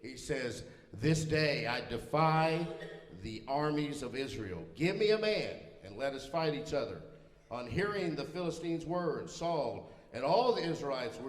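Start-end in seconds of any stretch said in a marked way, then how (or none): 0.9-7.0 a giant's defiant call; Goliath's challenge. Acted. Preacher quoting Goliath to the armies, defiant challenge. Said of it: "here's what Goliath says next to them".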